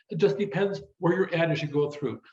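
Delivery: normal talking voice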